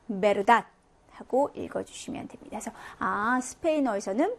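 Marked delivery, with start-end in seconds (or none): 0.1-0.6 verdad opening on a b, like Korean ㅂ. Shown as a demonstration. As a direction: start verdad with both lips, never an English v. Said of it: "비읍 발음이라고 생각하시면 돼요".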